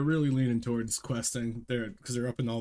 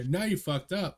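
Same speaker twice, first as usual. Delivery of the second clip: crab voice; 6 semitones higher than usual. Retold or imitated. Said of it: "And you hear".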